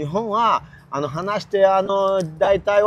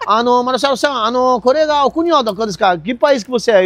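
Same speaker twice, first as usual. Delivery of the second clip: lightly acted Japanese man, pitched a bit higher; imitated Japanese speaker; 4 semitones higher than usual. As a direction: mimic a Japanese man addressing you. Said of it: "se chegar um japonês e olhar pra mim e falar".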